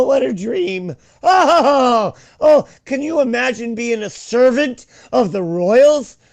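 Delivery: very high, slow, gushing swoon with laughter; mock royal fan. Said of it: "And they're like".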